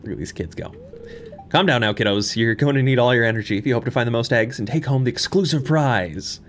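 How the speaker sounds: lightly voiced festival announcer; mayor announcer voice. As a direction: announce the egg hunt to the kids.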